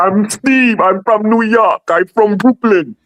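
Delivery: put-on Nigerian accent, pitched very high. Retelling how men in a club introduced themselves: imitating a nigerian accent. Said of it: "accent all day".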